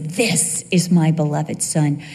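low, slowing, weighty declaration; lightly acted voice of God, low and deliberate; God, proud father. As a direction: announce a beloved son with deep pride. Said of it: "God gets giddy over Jesus. He says".

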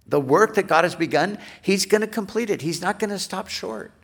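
high, quick, forceful proclamation; emphatic confidence. Retold or imitated. Preacher relaying Paul's confidence to the Philippians, emphatic confidence. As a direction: drive it home fast, pitched well up.

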